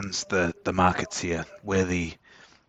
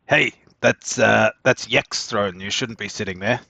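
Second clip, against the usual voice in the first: slightly raised voice for the room; mild public telling-off; a bit louder; 3 semitones higher, 4 dB louder than usual. Acted. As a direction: speak up a little so everyone hears. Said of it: "He says a bit louder so that everyone else can hear".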